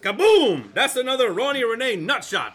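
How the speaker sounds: loud laughing brag; gloating laugh. Acted. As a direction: crow over the prank, laughing. Gloating after prank.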